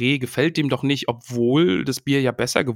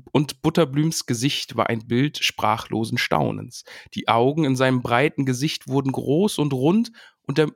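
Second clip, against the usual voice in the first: story reading. A narrator's reading. Reading a book aloud to a friend, lively. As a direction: read the passage to your podcast partner, lively. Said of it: "Ich lese die auch nochmal vor".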